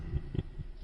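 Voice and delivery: soft sneering chuckle under the breath; a brief, mocking laugh, barely voiced; quiet mocking laugh. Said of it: "A quiet, mocking laugh".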